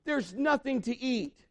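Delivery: put-on high, drawn-out kid gripe; mock sulky son; whining boy. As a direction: whine like a picky child. Acted son complaining at restaurant.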